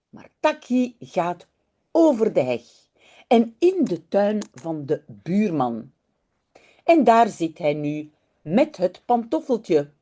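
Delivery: unhurried, expressive read-aloud in Dutch; children's story narration. A narrator's reading. Teacher reading a Dutch story to online learners, storytelling. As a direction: read it slowly and clearly for young learners.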